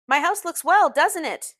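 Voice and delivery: high, loud, insistent question; demanding. A narrator's reading. Gatsby showing off his house to his friend, demanding. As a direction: press proudly for agreement. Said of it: "he demanded".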